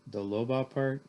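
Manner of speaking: mildly dejected question at everyday pitch; miserable. Acted. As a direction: ask it with a touch of misery. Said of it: "I said miserably".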